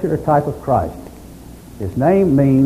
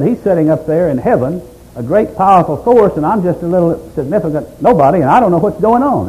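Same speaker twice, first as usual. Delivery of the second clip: lightly voiced, rising pleading complaint; a touch of helpless whine as Job; complaining; 5 semitones higher than usual. Job complaining to his friend about God, mild whine. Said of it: "And Job's complaining".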